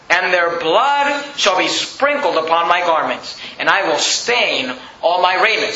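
slow, weighty reading of the verse; slow scripture reading. Acted. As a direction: read it out slowly, with weight. Preacher reads scripture aloud.

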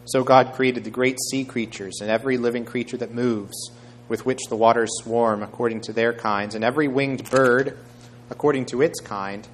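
measured, emphatic Bible reading; scripture reading. A narrator's reading. Preacher reading Acts to the congregation, measured and emphatic. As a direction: read the passage out clearly to a congregation. Reads Genesis aloud.

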